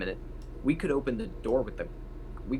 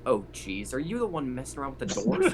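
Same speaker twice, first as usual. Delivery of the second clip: rising, startled question; surprised; 4 semitones higher than usual. Pretend. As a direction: caught off guard by the kid. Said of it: "I'm just like".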